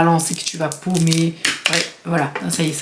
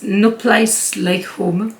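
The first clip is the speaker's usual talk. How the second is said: English words in a French accent; self-mocked English accent; much slower than usual. Real, not acted. Showing viewers the shade name, self-mocked English accent. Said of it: "avec mon super accent".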